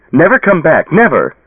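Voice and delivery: high, loud final command; shouting. A narrator's reading. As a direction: banish him for good.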